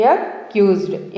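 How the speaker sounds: అక్యూజ్డ్ said slowly and clearly as a-kyuzd; careful pronunciation. Shown as a demonstration. Teacher modelling the word for learners, slow and clear. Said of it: "దీన్ని ఎలా పలకాలి?".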